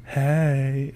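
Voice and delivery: gay voice. Retold or imitated. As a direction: lightly put on a stereotypical gay voice. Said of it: "Like the gay voice?".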